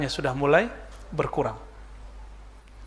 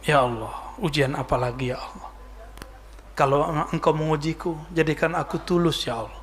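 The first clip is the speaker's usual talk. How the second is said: quiet complaint to God; 2 semitones lower, 5 dB quieter than usual. Acted. A servant complaining softly to Allah in prayer. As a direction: murmur your complaint to Allah. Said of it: "Mengeluh itu kepada Allah".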